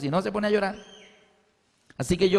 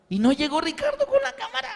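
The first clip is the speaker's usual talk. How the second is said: rueful laugh. Real, not acted. Recalling friend never showed up.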